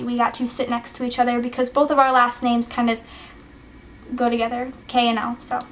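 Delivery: breathless and fading; out of breath, words thinning out; running out of air. Real, not acted. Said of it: "I'm running out of breath".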